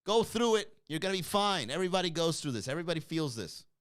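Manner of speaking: a hint of a firm comforter; mock pep talk. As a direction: play the patient friend talking someone down. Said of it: "It's like".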